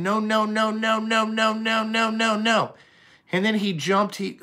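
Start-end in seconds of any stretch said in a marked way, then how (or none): 0.0-2.7 put-on higher, whiny toddler no's; a hint of a fussy toddler refusing; dad lightly imitating his son's refusals. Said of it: "he just kept saying".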